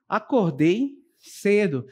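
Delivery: slow statement, falling on "cedo"; declarative intonation. Shown as a demonstration. Teacher giving an affirmative statement example, slow and falling. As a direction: state it slowly and plainly. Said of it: "elas são frases declarativas".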